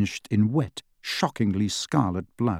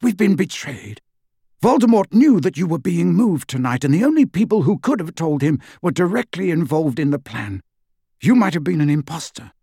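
tense and higher-pitched, pressing the point; Lupin, terse; 5 semitones higher than usual. Acted. Lupin telling Harry they have been betrayed, terse. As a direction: explain tersely and urgently. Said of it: "said Lupin tersely".

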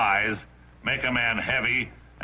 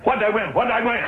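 excited; 9 semitones higher than usual. Acted. Impatient about the prize.

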